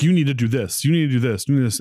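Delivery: insistent, repeated orders; pushy friend. Acted. Pushy friend telling someone how to live, insistent. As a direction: press each demand as a bossy friend.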